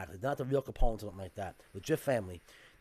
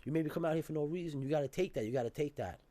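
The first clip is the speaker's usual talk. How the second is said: little thug; 3 semitones higher than usual. Retold or imitated. Storyteller mimicking the kid from the corner, mock thug. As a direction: retell a young thug's pushy challenge. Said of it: "starts talking like a little thug".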